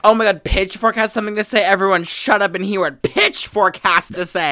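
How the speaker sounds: loud, high, mock-excited hushing; sarcastic mock awe. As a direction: sarcastically call the room to attention. Mocking Pitchfork's importance.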